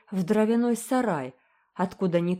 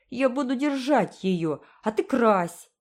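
higher, louder bossy eagerness; eager command; 6 semitones higher, 4 dB louder than usual. A narrator's reading. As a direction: order it eagerly. Boy directs sister. (азартно)

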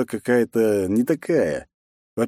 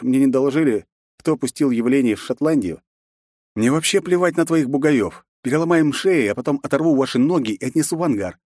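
growled; 5 semitones higher than usual. Acted. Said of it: "прорычал я".

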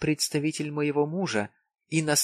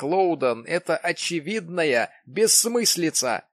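insistent; 6 semitones higher, 5 dB louder than usual. A narrator's reading. Jim insists, raised voice.

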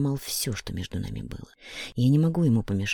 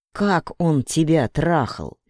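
slow, louder, each word hammered apart; every word stressed; 3 semitones higher, 4 dB louder, much slower than usual. A narrator's reading. Денис demands an answer, every word hit hard. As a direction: spell out every word like a threat. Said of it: "Денис громко произносит, выделяя каждое слово".

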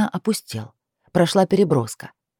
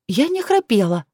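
unsure; 6 semitones higher than usual. Acted. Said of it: "слова звучали неуверенно".

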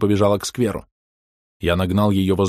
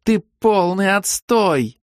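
high, loud, slow contemptuous yell; girl screaming scorn; yelling insult; 12 semitones higher, 4 dB louder, much slower than usual. A narrator's reading. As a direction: spit each word at him. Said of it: "снова заорала".

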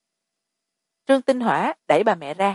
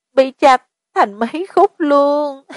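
put-on frightened girl; 6 semitones higher, 4 dB louder, slower than usual. A narrator's reading. Frightened girl describes corpse.

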